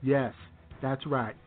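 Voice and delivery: Trump impression. Radio bit, mock Trump message boasting about saving Christmas. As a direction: brag like Donald Trump at a rally.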